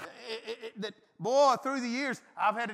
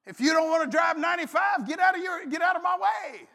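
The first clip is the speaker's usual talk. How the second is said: higher shouted demand; road-rage shout; 6 semitones higher, 4 dB louder than usual. Retold or imitated. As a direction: yell at the car in front. Yelling at drivers on interstate.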